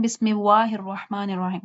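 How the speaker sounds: "بسم اللہ" with w-like rounded sounds; imitated mistake. Shown as a demonstration. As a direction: blur "بسم اللہ" into bismiwahi. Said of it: "کچھ لوگ پڑھتے ہیں". ("بسم اللہ" وا کی آواز سے)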